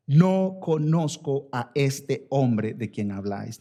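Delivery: drawn out oath of denial; slow sworn denial. Retold or imitated. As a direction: deny him slowly, word by word. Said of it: "a maldecir y a jurar".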